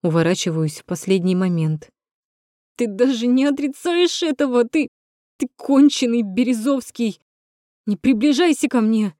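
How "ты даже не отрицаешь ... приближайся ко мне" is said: high, strained yelling that breaks; voice cracking. Acted. Natasha screams at Rom until her voice cracks. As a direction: yell until the voice tears. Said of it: "Срывает голос".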